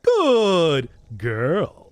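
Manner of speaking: loud cooing praise to a dog. Pretend. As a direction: praise it like a pet owner. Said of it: "you're talking to a dog voice".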